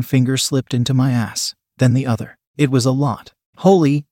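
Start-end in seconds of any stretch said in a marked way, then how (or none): 3.6-4.1 mild groaned exclamation. Acted. Narrator overwhelmed by sensation, mildly groaned. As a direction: let a touch of groan into it. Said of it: "I groaned".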